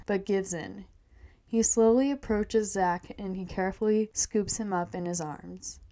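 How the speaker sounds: measured reading of a story; first-person tale, evenly told; story narration. A narrator's reading. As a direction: read it aloud like a storyteller. Reads her story aloud.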